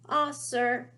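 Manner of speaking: gasp. A narrator's reading. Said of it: "he gasped".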